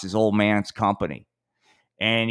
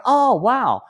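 squealing mock delight, pitched up high; hammed-up eager fan; mock excited listener; 5 semitones higher than usual. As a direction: play a gushing fan who expects a kids' show. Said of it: "people don't back into this going".

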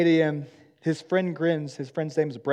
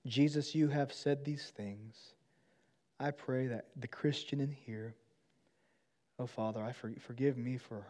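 closing prayer. Acted. Pastor praying over students, hushed and earnest. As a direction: pray humbly to the Father.

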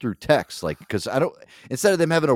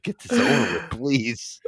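mildly defeated Santa imitation; mock defeated. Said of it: "He just sounded so defeated".

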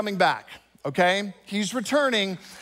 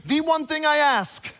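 higher, slow wife stressing her one condition; wife insists on a clean house, higher and slow; demanding wife; 4 semitones higher than usual. Retold or imitated. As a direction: lean hard on the one request. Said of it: "She goes".

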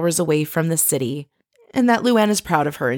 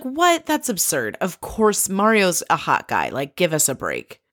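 mock disbelief. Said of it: "She's like".

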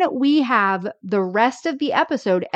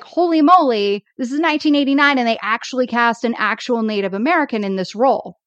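amazed reaction; 2 semitones higher, faster than usual. Retold or imitated. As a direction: blurt it out in happy disbelief. Acted amazed reaction to casting.

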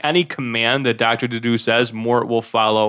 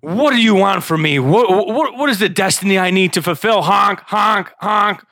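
high, loud and frantic; silly clown; 7 semitones higher, 4 dB louder than usual. Acted. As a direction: gush at the goose leader like a zealot. Mort worships the goose.

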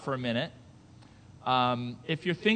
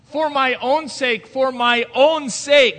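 slow, loud, higher, leaning on "own"; emphatic repetition; 6 semitones higher, 10 dB louder, slower than usual. Shown as a demonstration. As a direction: drive the repeat home slowly. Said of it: "repeating it because the verse repeats it".

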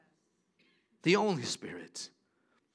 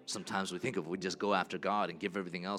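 much softer, intimate prayerful voice; hushed altar call; 12 semitones lower, 13 dB quieter than usual. Acted. Pastor quietly urging the congregation to put God first, softly. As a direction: draw them close, gently, over the music.

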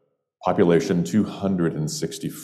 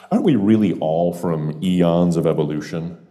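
long-winded answer. Pretend. Stranger philosophising to a bartender, long-winded and building in fervour. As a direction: pile up the phrases, swelling towards the end. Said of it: "that long-winded answer".

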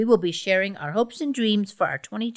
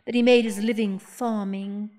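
solemn poet laureate reading; dramatic poetry recital. Acted. Poet recites her romance poem.

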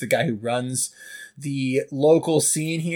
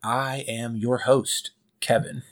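sultry narrator; 3 semitones lower, 4 dB quieter than usual. Acted. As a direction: purr it like a smooth jazz DJ. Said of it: "most smooth jazz intro Kevin's ever done".

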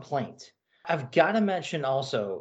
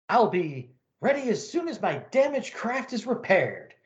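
alien pilot voice; 7 semitones higher than usual. Acted. Pilot speaks.

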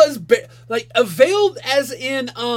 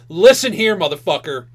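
mock menace. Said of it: "she just gets right in his face".

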